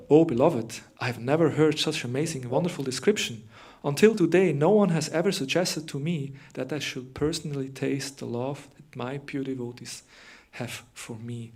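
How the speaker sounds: loud, wonder-struck exclamation; amazed Krishna. Acted. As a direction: marvel at what you've just heard. Reads Krishna's amazed reply.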